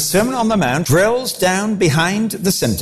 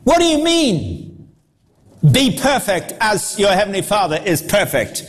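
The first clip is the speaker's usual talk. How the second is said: incredulous; 3 semitones higher than usual. Retold or imitated. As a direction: push back in disbelief. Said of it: "crowd objecting to Jesus".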